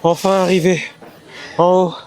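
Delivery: breathless after the climb; winded from the stairs; out of breath. Real, not acted. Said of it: "Je suis essoufflé".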